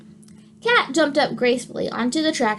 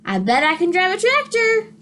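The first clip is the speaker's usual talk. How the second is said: higher, perky duck voice; Duck's voice; 6 semitones higher than usual. Acted. Teacher reading to kids voices Duck, eager and higher. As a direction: play the eager little duck.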